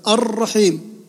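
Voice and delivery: الرحيم with a held, rolled R; doubled ra. Shown as a demonstration. Teacher counting the fourth shadda, rolled R in الرحيم. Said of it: "هذه شدة رابعة".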